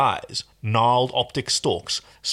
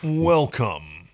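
booming baritone. Acted. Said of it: "a baritone voice boomed".

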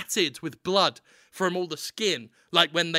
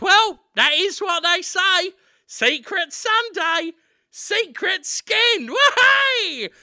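high, slow cockney lad; cheerful high Cockney boy; high, chirpy Cockney chant; 12 semitones higher, 7 dB louder, slower than usual. Acted. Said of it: "Daniel Radcliffe says".

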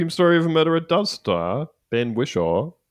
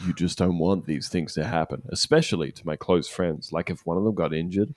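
mock solemn witness statement, lower and softer; quoting a witness; 10 semitones lower, 7 dB quieter than usual. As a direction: read it like a grave news witness.

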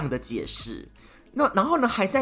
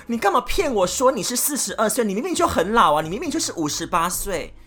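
mock angry confrontation; 4 semitones higher, 4 dB louder, faster than usual. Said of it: "然后你就很气".

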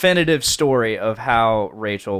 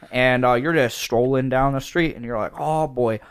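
put-on Wisconsin accent. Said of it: "in a Wisconsin accent".

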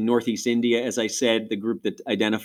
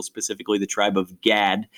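Rochester accent. Shown as a demonstration. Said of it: "I said that in my best Rochester, New York accent".

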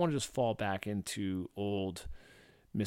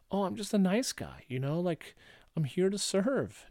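mock people-pleaser; 8 semitones higher than usual. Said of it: "I was turning it into some type of".

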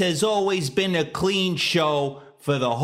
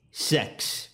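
hushed, breathy aside; whispered; 5 semitones lower, 5 dB quieter than usual. Acted. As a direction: whisper it like a secret. Sly whisper of the word.

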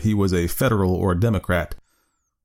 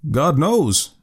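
higher, bewildered exclamation; at his wits' end; 6 semitones higher than usual. Acted. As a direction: blurt it out, utterly confused. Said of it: "exclaimed he at his wits' end".

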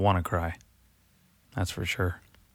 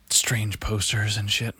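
whisper; slower than usual. Acted. Creepy late-night radio mood.

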